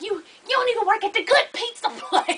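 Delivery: high, laughing put-down; mock drunk insult. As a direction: sneer it through a laugh. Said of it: "So she was like".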